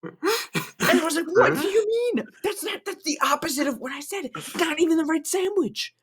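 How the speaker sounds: high, loud, laughing through the story; can barely get it out for laughing; laughing complaint. Retold or imitated. Friend retelling a McDonald's mix-up, laughing hard.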